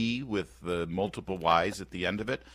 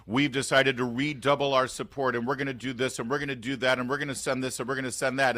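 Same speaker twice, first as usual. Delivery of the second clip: mock speech; 4 semitones higher than usual. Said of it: "make this big speech".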